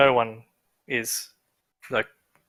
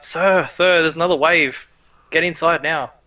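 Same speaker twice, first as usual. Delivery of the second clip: high, loud call from the battlements; guards crying out; 4 semitones higher, 4 dB louder than usual. Acted. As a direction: shout a warning down from the walls. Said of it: "start crying out".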